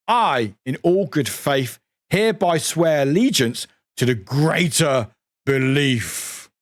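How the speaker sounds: solemn oath reading; lightly voiced solemn oath; different voice. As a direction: swear it like a cult initiate. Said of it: "Or different voice time".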